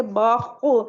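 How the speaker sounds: बखो with the back of the tongue lifted; thick back-of-mouth kh on बखो; heavy kh. Shown as a demonstration. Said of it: "अब आप बोल के देखिए".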